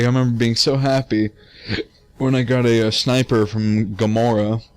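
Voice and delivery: hiccuping between words; talking through hiccups. Real, not acted. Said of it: "Oh god, I have the hiccups".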